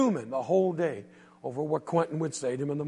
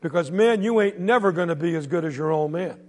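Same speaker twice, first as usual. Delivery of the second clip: louder, higher jeering taunt; mocking bully; 3 semitones higher, 5 dB louder than usual. Bully heckling the boy walking to school, loud jeering. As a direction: heckle the kid from the store porch.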